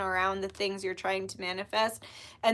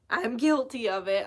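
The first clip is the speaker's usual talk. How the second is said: voice crack. Real, not acted. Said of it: "Might you hear my voice crack?".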